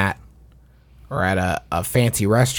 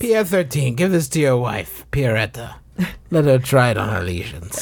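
put-on French accent. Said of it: "your French accent".

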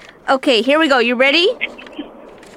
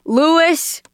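whisper; 4 semitones higher than usual. Real, not acted. Host calls caller softly.

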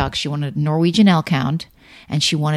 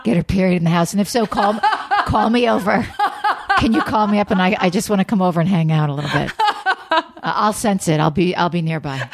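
hammed-up leering creep, laughing through it, higher; creepy pervert voice; 4 semitones higher than usual. Joking to her co-host, a creepy pervert voice. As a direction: play the giggly creep who wants to come over. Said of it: "I'm like".

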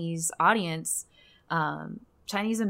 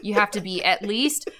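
laughing; 4 semitones higher, 12 dB louder than usual. Real, not acted. Joking about podcast age limit.

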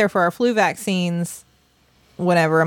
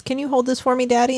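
put-on higher, innocent little girl voice; sweet child ask; 5 semitones higher than usual. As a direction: ask sweetly, hiding the plan. Child sweetly asks dad.

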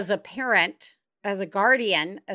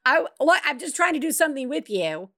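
Biz voice; 4 semitones higher, faster than usual. Retold or imitated. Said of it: "The biz voice is".

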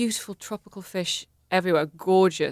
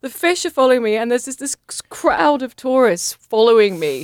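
excited; 6 semitones higher, 7 dB louder than usual. Real, not acted. Frantic climax of barf story.

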